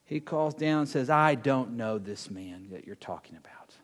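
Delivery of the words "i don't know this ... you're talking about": very low-pitched, sinking disavowal; grave denial. Acted. Peter disowning Jesus to the bystanders, low grave denial. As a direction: let the denial sink low and heavy.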